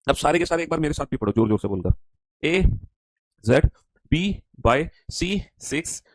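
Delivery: ordinary talk, nothing marked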